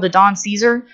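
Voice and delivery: "Caesar" said like the Roman ruler, SEE-zer; "Caesar" with stressed SEE and weak zer; imitated mispronunciation. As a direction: quote his slip, "Caesar" as SEE-zer. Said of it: "he called it the Don Caesar".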